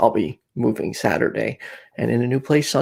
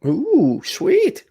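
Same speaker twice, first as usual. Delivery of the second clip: high, excited "sweet"; excited squeal; 13 semitones higher than usual. Real, not acted. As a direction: squeal with delight. Excited reaction to vaccine news.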